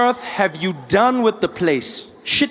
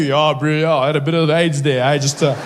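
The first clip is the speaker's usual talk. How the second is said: put-on Canadian accent; 4 semitones lower than usual. Canadian reply voiced.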